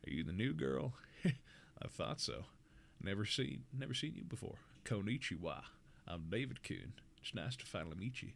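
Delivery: put-on soft, low southern country boy; southern country accent. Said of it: "southern country accent in my head".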